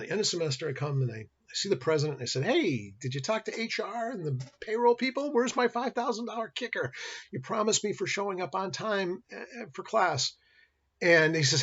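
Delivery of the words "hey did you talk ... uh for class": raised, slow asking voice; mock demanding the bonus; higher pitched demand. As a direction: press for the promised money in a higher pitch.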